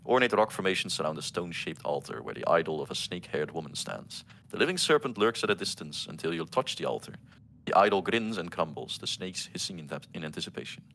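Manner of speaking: measured reading of game flavor text; scene narration. Acted. Game master describing the snake shrine to players, measured narration.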